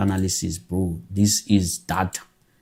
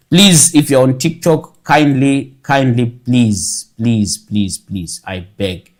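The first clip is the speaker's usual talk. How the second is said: pleading; 3 semitones higher, 4 dB louder, slower than usual. Real, not acted. Begging viewers to subscribe.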